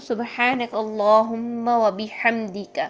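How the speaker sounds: slow devotional recitation; measured prayer recitation. Shown as a demonstration. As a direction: chant سبحانک اللہم و بحمدک slowly. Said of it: "ہم اس میں پڑھتے ہیں".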